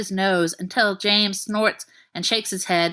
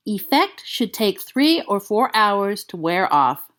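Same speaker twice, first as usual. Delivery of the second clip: slow, lightly voiced boy; a hint of a young boy reading out; little boy voice; slower than usual. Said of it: "A little boy's voice".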